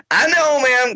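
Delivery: high, soothing yes-ma'am; placating. Retold or imitated. Comic placating the drunk fan, high. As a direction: humor her sweetly.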